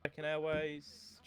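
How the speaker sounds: drawn out. Shown as a demonstration. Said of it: "repeated line read twice".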